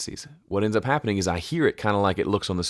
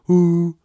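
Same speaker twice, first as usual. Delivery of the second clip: male hoot sound; 10 semitones higher, 9 dB louder than usual. Shown as a demonstration. Explaining hundred hertz, demoing a hoot. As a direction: show how a man says hoot, mouth rounded. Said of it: "if you say the word hoot".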